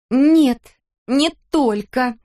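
high, loud sharp retort; a daughter cutting off her mother, curt. A narrator's reading. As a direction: throw it back at him. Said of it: "бросила Кристел".

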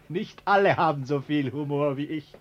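lachend und etwas lauter sprechen. Acted. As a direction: lacht beim Sprechen. Biedermann lacht nervös dabei. (nervös lachend, etwas lauter)

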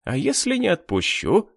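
high, taunting question; sneering. A narrator's reading. Jilted groom refuses the headman's daughter, sneering. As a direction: challenge her with a sneer. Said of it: "скривился жених".

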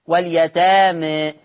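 واليتامى slowly, final vowel tilted toward e; with taqlil. Shown as a demonstration. Teacher demonstrating taqlil on واليتامى. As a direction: draw out واليتامى leaning the end to e. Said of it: "الفتح والتقليل في لفظ واليتامى".

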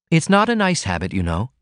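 a gentle, teasing reproach; mild reproof. Acted. Ruth chides Martin about his smoking, mildly reproving. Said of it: "she reproved".

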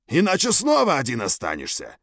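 threatening creature voice. Acted. Leader threatens the young gorgun.

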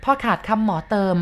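plain reading voice

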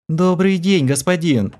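high, purring greeting. A narrator's reading. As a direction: purr it like a lazy cat. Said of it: "промурлыкала шатенка".

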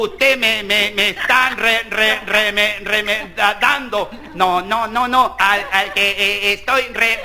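halting, stammered complaint; stuttering complaint. Acted. Diner complaining he is being mimicked, stammering. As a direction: stumble over every syllable. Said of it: "stuttering diner complains".

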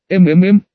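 drawn-out questioning hmm; questioning hum. Acted. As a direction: stretch out a curious mm. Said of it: "вопросительно протянул".

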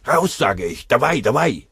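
lauter, drängender Ruf an den Gefangenen; scharfer Befehl. Acted. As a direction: treib ihn mit Gebrüll an. Hähnel stellt den Scharfschützen. (Hähnel brüllt den Russen an, laut und scharf)

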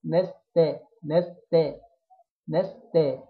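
نستا thin and fronted from noon to taa; light smiling letters. Shown as a demonstration. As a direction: say نستا through a smile, every letter light. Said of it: "هبتسم من أول النون لحد آخر التاء". (نستا مرققة مع ابتسامة)

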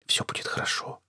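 soft, unvoiced reassuring whisper; hushed, breath-only reassurance. A narrator's reading. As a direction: whisper it to comfort a husband. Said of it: "прошептала она".

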